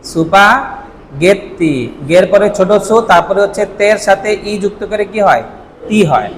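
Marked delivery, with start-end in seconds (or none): 0.1-1.7 সুপাগেত্তি stretched very slowly, mora by mora; slow katakana reading. Shown as a demonstration. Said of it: "স্প্যাগেটিকে কি বলা হয়".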